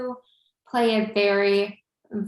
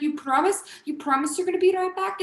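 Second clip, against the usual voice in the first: put-on pleading Albanian accent, pitched up; 8 semitones higher than usual. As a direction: ask for reassurance in imitated Albanian accent. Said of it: "I'm just trying to do his cute accent".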